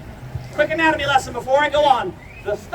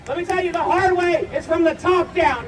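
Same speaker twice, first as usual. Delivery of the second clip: fire eater boasting; 4 semitones higher than usual. Acted. Fire eater hyping the crowd.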